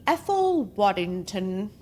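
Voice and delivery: light put-on British accent on the name; playful British accent; mock British accent. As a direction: say it like a jokey English toff. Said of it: "Sorry for that accent".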